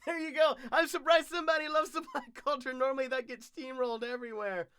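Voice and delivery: high, loud furry creature voice; bouncy little Gurgi creature. Acted. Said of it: "Gurgi is my favorite".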